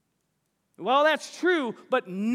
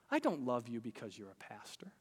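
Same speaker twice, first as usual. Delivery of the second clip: whispered; 10 semitones lower, 12 dB quieter than usual. Retold or imitated. Quoted wife, whispered line.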